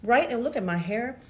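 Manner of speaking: talking around a mouth appliance; words blurred by a palate device; talking funny. Real, not acted. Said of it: "I'm, I'm talking funny".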